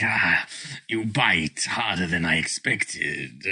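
low, slow dragon rumble. Acted. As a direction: speak as an amused dragon. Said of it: "the dragon sort of looks down at it like".

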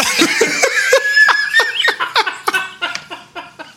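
loud, high, breathless laughing fit; big laugh. Real, not acted. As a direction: crack up completely, letting it trail out. Laughing at the punchline.

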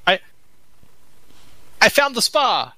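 an odd put-on voice for Mahadi; character voice. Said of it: "that's not even his voice".

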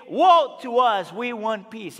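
slow loud cry of woe. Acted. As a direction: lament it out loud. Preacher cries out psalm's plea.

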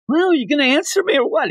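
high, impatient mock demand; impatient villain demand. Villain pressing the heroes for an answer, high and impatient. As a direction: hurry them up, pitched high. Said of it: "he's like".

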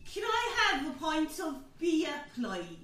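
slow put-on Waterdeep accent; ordering a pint in Waterdeep dialect. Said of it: "That's really good".

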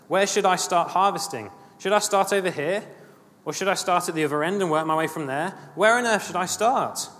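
mildly exasperated, pitch climbing on each question; urgent questioning. Acted. Dreamer asking the Lord where to begin harvesting, urgent questioning.

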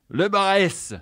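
Le Bresse said high in a mock French accent; French pronunciation. Quebecer mimics a Frenchman naming the restaurant, mock French accent. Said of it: "Il me disait".

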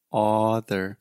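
ah vowel in "discover", "onion", "other", like father; saying ahh. Retold or imitated. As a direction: open "ah" sound in "other" instead of schwa. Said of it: "she is saying ah, ah".

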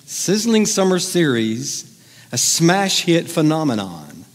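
slow, hammed-up show promo; mock promo read. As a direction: stretch it out like a TV teaser. Hyping the show's promotional description.

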